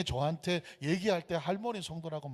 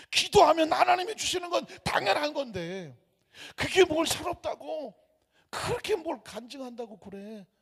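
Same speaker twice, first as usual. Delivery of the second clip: much higher and louder, slowed emphatic repeat; forceful proclamation; 10 semitones higher, 6 dB louder than usual. Retold or imitated. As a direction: proclaim it as undeniable truth. Preacher re-says her words forcefully. (설교 강단에서 할머니의 말을 힘차게 외침)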